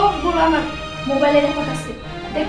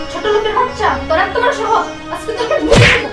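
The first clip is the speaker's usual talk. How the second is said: angry shout; 3 semitones higher, 4 dB louder than usual. Acted. Madam insults and threatens servant.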